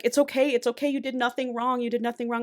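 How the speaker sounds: tender retold consoling; acted reassurance. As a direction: soothe someone who is dying, lightly acted. Heroine comforts the dying robot.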